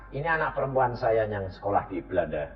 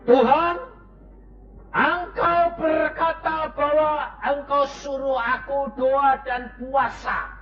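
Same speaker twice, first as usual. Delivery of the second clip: fervent prayer; 12 semitones higher than usual. Acted. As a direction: cry out to God in prayer. Loud prayer to God.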